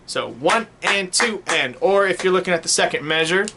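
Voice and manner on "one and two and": one and two and, slow and even on each eighth; slow counting. Shown as a demonstration. Teacher repeats the eighth note count, slowly. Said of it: "or and".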